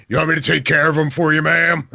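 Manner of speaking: quick put-on voice of an eager helper; eager townsman. Townsman offering to take care of him, eager. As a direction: rattle off a chivalrous offer. Acting out the one guy's offer.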